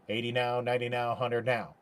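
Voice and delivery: short of breath chanting. Real, not acted. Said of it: "I'm running out of breath".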